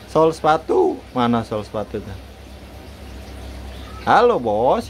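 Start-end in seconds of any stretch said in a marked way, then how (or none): 0.1-1.0 high street call jumping up at the end; shoe mender's cry. Shown as a demonstration. Owner teaches bird a cobbler's street cry, high. 4.1-4.9 "Halo, Bos" swooping up, down and up; sing-song call. Shown as a demonstration. Owner coaching bird to greet the boss, sing-song.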